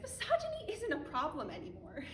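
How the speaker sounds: mock the idea; bitter sarcasm. Sneering at those who deny misogyny, bitter laugh.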